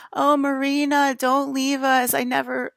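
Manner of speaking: high, slow, pleading cartoon fish; little fish voice. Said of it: "he's like".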